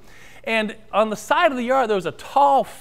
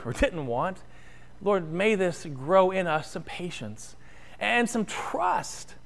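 prayer; 3 dB quieter than usual. Acted. Leads the prayer.

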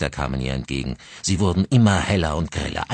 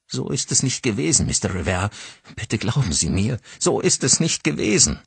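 higher, urgent pleading; desperate pleading; 5 semitones higher than usual. Acted. Carly pleading with Mister Rivera, desperate and higher. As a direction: beg him to believe her.

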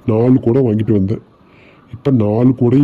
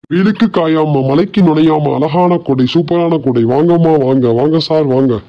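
singsong street hawker; 4 semitones higher than usual. Acted. Hawker calling out prices.

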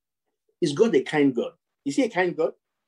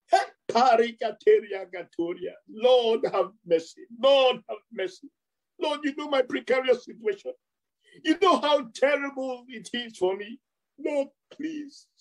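beggarly pleading; 5 semitones higher than usual. Retold or imitated. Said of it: "all crying, beggarly, pleading".

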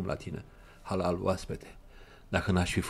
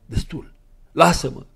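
loud, higher anguished cry; heartrending cry; 8 semitones higher, 8 dB louder than usual. Acted. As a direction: cry out in torment. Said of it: "strigă el cu un glas sfâșietor". (strigăt sfâșietor, tare și mai sus)

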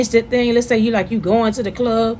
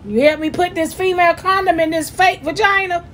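teasing request; 7 semitones higher than usual. Real, not acted. Asks off-camera husband to join.

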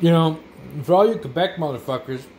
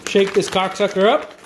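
rowdy hype; 4 semitones higher than usual. Real, not acted. Hyping up shaking the ration.

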